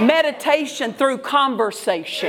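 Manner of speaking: rising, insistent preacher's cadence; preaching. Acted. Pastor preaching to the congregation, fervent and rhythmic. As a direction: drive each phrase home to the congregation.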